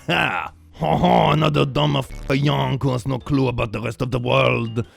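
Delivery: high, hammed-up French accent; French accent impression. Mocking someone clueless about the world, hammed-up French accent. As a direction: scoff in a bad mock French accent. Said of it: "That was my best French impression".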